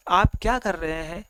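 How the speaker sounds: mildly softened, polite demo; loving request. Shown as a demonstration. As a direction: ask it kindly, as a gentle request. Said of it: "ये प्यार से पूरा request कर रहा है".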